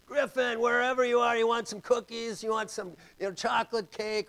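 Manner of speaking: high, sing-song coaxing call; coaxing a hiding child with cookies; bribing call. Retold or imitated. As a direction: lure him out with treats. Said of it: "bribery scene".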